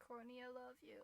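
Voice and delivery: soft adoring. Real, not acted.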